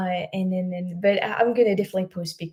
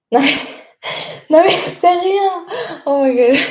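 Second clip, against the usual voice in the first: calling out loud; 10 semitones higher, 8 dB louder than usual. Real, not acted. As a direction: shout reassurance to another room. Calling out to mom, laughing.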